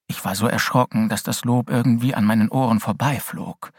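ordinary delivery

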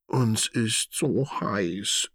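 slow heat-weary whine; groaning from heat. A narrator's reading. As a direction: wilt in the heat as you say it. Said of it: "stöhnt Martha".

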